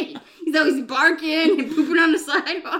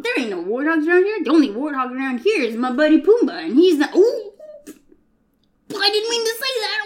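put-on Brooklyn accent. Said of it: "He's from Brooklyn".

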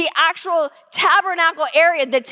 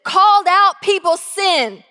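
raised, smug quote; louder mock know-it-all; mock self-righteous; 4 semitones higher, 6 dB louder than usual. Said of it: "people go".

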